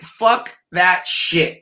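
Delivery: slow, drawn-out disgusted groan; mock disgust. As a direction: drag it out like you can't believe it. Players reacting to Dalton signing.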